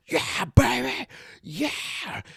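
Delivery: high, loud hollering; excited cheering. Acted. Excited trainer hollering after the hit, elated. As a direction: whoop it in a high put-on voice.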